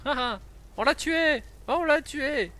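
high laughing cheer; triumphant laugh. Real, not acted. Triumph after killing the dragon. (cri de victoire en riant)

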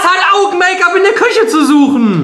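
laughing. Real, not acted. Laughing indignant question.

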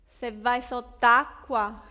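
slow, deadpan threat; mother threatening the child who won't come out; mock threat. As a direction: drag it out like a menacing mom.

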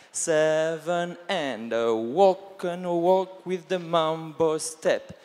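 slow, rhythmic calling of the steps; dance count call. Shown as a demonstration. Instructor calling the line dance counts, slow and rhythmic. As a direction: count the class through the steps in time. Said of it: "calling counts to the class".

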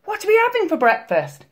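high, eager granny voice; high storybook Granny. A narrator's reading. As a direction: ask it as a delighted old granny. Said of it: "said Granny".

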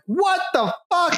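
high-pitched shocked squeal; shocked outburst. Retold or imitated. Player seeing a ghost werewolf, squealing in shock. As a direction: yelp it in disbelief. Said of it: "And you're like".

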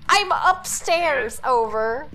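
yelling across the room. Real, not acted. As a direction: call back across the house. Answering call across the house.

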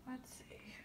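whispered to herself while searching; soft whispered aside. Real, not acted. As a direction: breathe it, no voice. Muttering while searching for deck.

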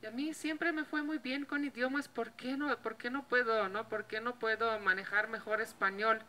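rising, exasperated questions to herself; frustrated self-talk. Retold or imitated. Retelling her struggle with Spanish, frustrated asking herself. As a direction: ask yourself why it won't work.

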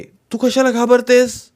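high, drawn-out coaxing question; slow, loud, high-pitched appeal; calling to squirrel. A narrator's reading. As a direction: raise the voice slowly to a frightened animal. Boy reassures the frightened squirrel aloud.

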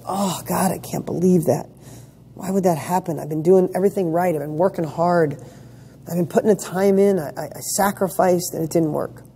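lightly imitating someone upset that hard work failed; half-hearted whiny complaint, slightly hushed; mild mock despair. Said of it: "You go".

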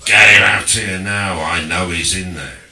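loud, insistent mock Cockney repeat; Cockney bloke. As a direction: hammer the demand again in Cockney. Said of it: "So, this bloke".

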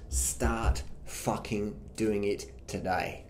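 whispered urgent order. Real, not acted. Coach whispers final challenge to viewers. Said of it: "whispered closing command".

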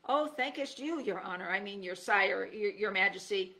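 fumbling mock-archaic courtly address; old-time English. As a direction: stumble through an old-fashioned bow of words. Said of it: "in my best old-time English".

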